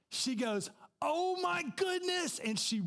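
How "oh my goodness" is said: very high, drawn-out exclamation; shocked cry, pitched way up; acted shock. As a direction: imitate a stunned flight attendant. Acts flight attendant's shocked recognition.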